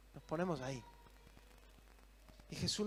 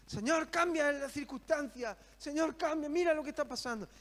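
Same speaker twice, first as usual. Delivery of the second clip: pleading prayer; 8 semitones higher, 3 dB louder than usual. Acted. Believers begging God for change.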